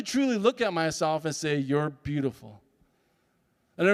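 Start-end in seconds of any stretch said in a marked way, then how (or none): 1.6-2.6 sincere. Retold or imitated. Finally telling himself in the mirror, slow and sincere. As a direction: say it slowly like you mean it. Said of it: "I calmed my nerves".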